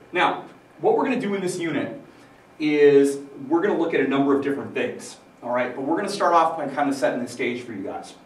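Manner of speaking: talking with a mouthful; mouth full. Real, not acted. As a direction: speak around a bite of banana. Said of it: "I still have banana peel in my mouth".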